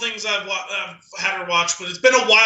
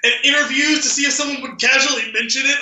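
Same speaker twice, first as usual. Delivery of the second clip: mock exasperated; 7 semitones higher than usual. Sister's excuse, shouted.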